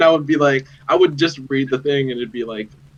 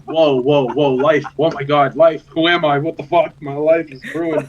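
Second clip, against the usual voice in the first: half-hearted scream, no real yelling; mock panicked outburst. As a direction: play an existential freak-out lightly. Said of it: "go up there and scream".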